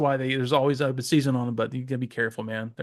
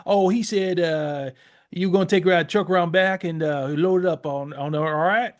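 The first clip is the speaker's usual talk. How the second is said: Cajun accent impression; 3 semitones higher than usual. Podcaster imitating a Cajun interpreter, light Cajun accent. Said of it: "That's how they would talk to you".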